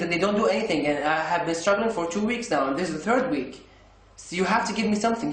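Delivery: retelling a heated complaint, voice up and rushed; frustrated outburst. Retold or imitated. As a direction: vent your frustration at the useless doctor. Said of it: "I got frustrated and I got pissed".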